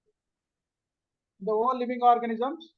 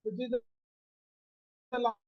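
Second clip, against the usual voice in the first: very faint, voice dropping away; almost inaudible over the call; barely audible; 8 dB quieter, faster than usual. Real, not acted. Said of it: "your voice is very low".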